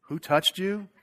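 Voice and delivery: mock disbelief rising high on you; hammed-up disbelief from the disciples; incredulous disciples. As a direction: disciples scoffing at Jesus. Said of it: "the disciples are like".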